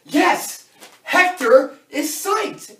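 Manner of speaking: high, loud victory shout; whooping, drawn-out pep-rally yell; triumphant cheer. Acted. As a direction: announce it to the room like a win. Celebrating Hector's support to the team.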